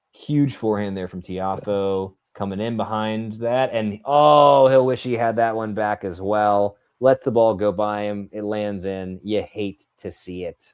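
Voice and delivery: measured tennis commentary; live play-by-play. Real, not acted. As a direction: call the rally as it unfolds.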